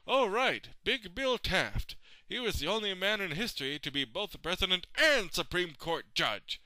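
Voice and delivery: imagined history students. Acted. President imagining future history students, lightly imitated admiration. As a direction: lightly imitate students recalling a great man. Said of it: "all the history students will say".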